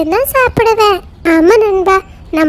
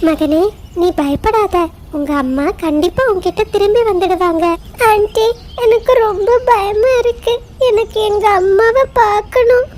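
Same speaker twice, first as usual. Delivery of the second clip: gentle reassuring. Acted. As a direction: soothe a frightened child. Mother bird comforts lamb.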